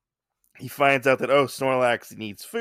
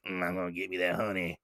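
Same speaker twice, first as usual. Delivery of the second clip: lower, soft, hungry monster coaxing; hungry Snorlax; 7 semitones lower, 5 dB quieter, faster than usual. Retold or imitated. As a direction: croon low like a greedy beast. Snorlax chasing for honey.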